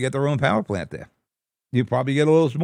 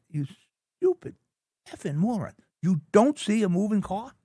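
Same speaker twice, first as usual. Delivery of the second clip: retold angry outburst; 8 semitones higher than usual. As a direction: pitch jumps way up, yelling at a careless pedestrian. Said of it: "I lost it".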